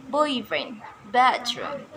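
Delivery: put-on boyfriend and bathroom stressed on BOY and BATH; boyfriend, bathroom, each falling after the first part; stress on first term. Shown as a demonstration. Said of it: "stress placement is in the first term".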